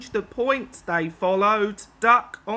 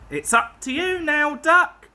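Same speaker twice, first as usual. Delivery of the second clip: urgent; 7 semitones higher, 5 dB louder than usual. Acted. Driver urging Duck.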